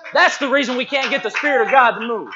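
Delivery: high, loud preacher's proclamation; emphatic preaching. Real, not acted. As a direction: drive the point home at full voice. Preacher drives point home, then repeats.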